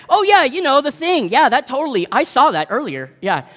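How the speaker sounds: bluffing like he understands engines; mock know-it-all. Sitting beside Hector with the flashlight, a hammed-up fake expert.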